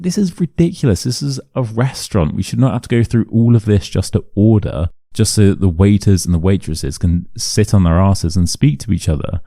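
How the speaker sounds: indignant complaint. Retold or imitated. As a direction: complain as if retelling an outrage. Indignant inner complaint about the restaurant.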